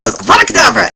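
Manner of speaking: loud, hammed-up spell cast; mock curse cry. Bellatrix cursing the Tonks cosplayer, loud hammed-up spell. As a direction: shout the killing curse like a duelling witch. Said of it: "she goes".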